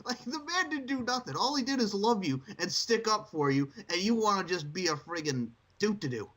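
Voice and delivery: high-pitched exasperated rant. Real, not acted. Ranting against Lana.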